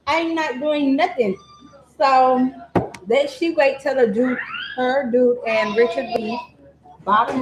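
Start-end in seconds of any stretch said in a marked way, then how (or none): 0.0-1.3 put-on hiding girl. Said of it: "Girl was still in that bed like".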